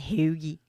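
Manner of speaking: "hoogie" with oo in place of long o; Delco O sound. Shown as a demonstration. Co-host showing the local O sound, "hoogie" with oo. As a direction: say "hoogie" for hoagie, Delco style. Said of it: "it's just something with the".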